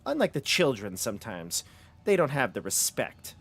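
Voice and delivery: lilting, measured villainess voice; imperious mistress of the house; stern guide who commands children. Acted. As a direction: swoop the pitch, then let each phrase fall. Plays the woman guiding the party.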